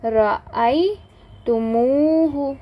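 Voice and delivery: रअयतुमूहु drawn out slowly, each syllable clear; slow drilled answer. Shown as a demonstration. Teacher answering her own question, रअयतुमूहु slow and clear. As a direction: spell out रअयतुमूहु slowly for the class. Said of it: "क्या बन जाएगा?".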